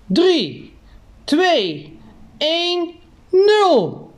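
rising launch countdown, climbing high; excited countdown. Acted.

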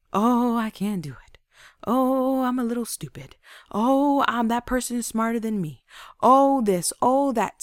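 put-down self-talk, mimicked; mock self-pity. Speaker imitating people who talk down on themselves, mock self-pity.

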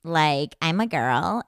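lightly put-on California girl accent; a hint of California girl talk. Shown as a demonstration. Cohost showing her own accent, lightly exaggerated Californian. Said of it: "my accent is like".

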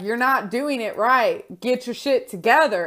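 mild, stern telling-off from a friend; mock scolding yell. Friend calling out a friend who slacks, mild mock yell. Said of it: "they'll just yell at you and be like".

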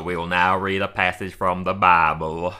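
slow, low preacher voice; hushed churchy voice. Retold or imitated. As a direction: intone it like a reverend. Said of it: "you got a good impression of that".

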